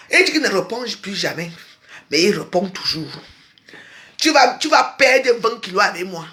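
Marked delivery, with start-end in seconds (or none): 4.2-6.3 a mocking shout into the camera; shouted threat. Real, not acted. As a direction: yell the threat at him. Ranting threat at rival.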